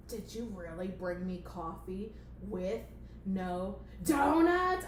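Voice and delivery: hammed-up angry boss; indignant boss. Boss complains, building to a yell.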